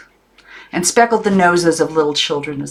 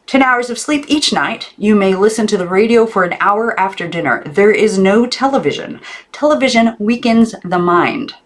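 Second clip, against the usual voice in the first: high, loud laying down rules; stern aunt; 6 semitones higher, 4 dB louder than usual. A narrator's reading. Aunt banning television for Maggie, high and loud. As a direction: decree each rule firmly. Aunt voiced in read story.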